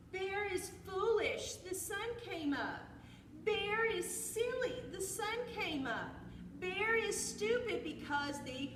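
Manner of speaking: high, loud sing-song teasing; taunting squirrel. A narrator's reading. Squirrel dances around mocking bear, high-pitched and gleeful.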